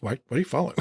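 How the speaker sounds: startled question. Retold or imitated. Poirot catching the doctor tailing him, mock startled. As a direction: spin round and demand it, half-playful. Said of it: "Poirot turns and goes".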